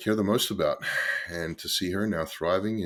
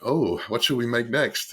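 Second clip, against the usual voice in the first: slow, higher, louder retold pondering; drawn-out musing; 5 semitones higher, 5 dB louder than usual. Replying to an eager partner, slow musing aloud. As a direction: draw out the "oh" and muse aloud.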